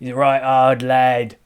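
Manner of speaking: hammed-up Cockney banter; Cockney accent. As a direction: tease in a put-on Cockney accent. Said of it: "I can only do Cockney".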